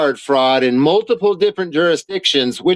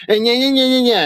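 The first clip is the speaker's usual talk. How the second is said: mocking yeah yeahs; 9 semitones higher, faster than usual. Mocking her complaints.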